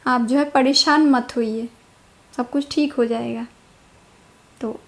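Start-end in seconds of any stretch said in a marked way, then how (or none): 0.1-3.5 reassuring. Shown as a demonstration. Reassuring a tense husband.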